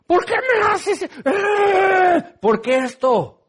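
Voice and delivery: high laughing protest to a shout; mock protest. The believer protesting to God, high laughing yell. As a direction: cry out half-laughing, then yell.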